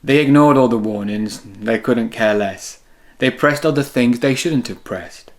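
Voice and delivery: lively storybook read-aloud; reading to children. A narrator's reading. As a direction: read it like bedtime story time for kids. Reads picture book to children.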